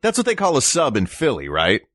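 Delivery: lightly voiced unsure out-of-towner; puzzled Nebraskan. Playing someone in Nebraska hearing the word hoagie, mildly puzzled. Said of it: "someone in Nebraska would say".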